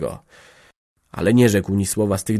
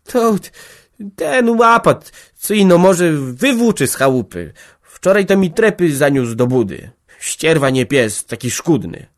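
much higher, louder, whimpering; whining excuse; 8 semitones higher, 7 dB louder than usual. A narrator's reading. Jagna frightened, whining excuses to Maciej. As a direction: plead and whine, scared of being caught. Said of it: "zaczęła się jękliwie tłumaczyć".

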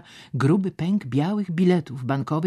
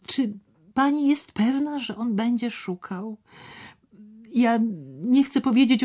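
much higher, louder, urgent pleading; agitated man voiced high; 9 semitones higher, 3 dB louder than usual. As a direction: swear it to her, then drop to a whisper. Szczerbic's agitated questioning.

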